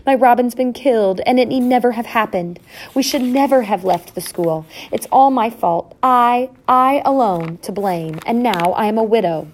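high, dramatic lament; grief-stricken. A narrator's reading. Mother believes her husband killed, grief-stricken. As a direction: lament it, heaping blame on yourself. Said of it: "Hyacinth's heart was sour, sore".

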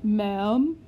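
a touch of stiff formality; clipped lordly greeting. Acted. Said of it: "said Lord Tweezle stiffly".

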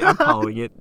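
high, loud exclamation; exclaiming. Real, not acted. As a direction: throw up your hands and call it. Giving up on silly story.

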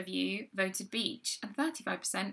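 measured, formal news-anchor read; newsreader voice. Acted. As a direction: present it like the evening news. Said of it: "I love it when you do the newsreader voice".

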